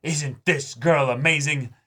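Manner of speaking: lightly voiced sly foreshadowing, half-hearted; mock-sweet hinting with a laugh; teasing ominous hint. Voicing Fuko's ominous hinting.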